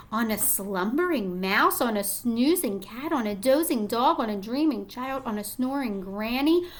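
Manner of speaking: put-on gentle storybook read-aloud to young kids; reading to children. Reading picture book aloud.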